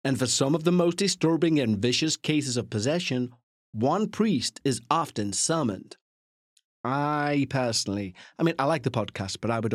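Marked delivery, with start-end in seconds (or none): 0.0-6.0 mock-dramatic American blurb read, slowing at the end; lightly faked American narrator with gravitas; bad American accent. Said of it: "I can't do an American accent".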